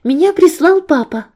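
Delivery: out of breath after running; gasping between words; breathless. A narrator's reading. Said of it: "задыхаясь".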